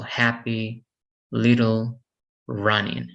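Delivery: "happy, little, running" each stressed on the first syllable. Shown as a demonstration. Teacher demonstrating two-syllable words, "happy, little, running" stressed up front. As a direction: lean on HAP, LIT and RUN in "happy, little, running". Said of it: "we're stressing the first syllable".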